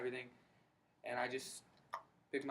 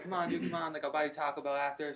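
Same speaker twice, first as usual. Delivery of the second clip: mock excited coaxing, pitched up; excited buddy; 4 dB louder than usual. Buddy talking him into coming to an event, excited. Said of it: "he was so excited about it".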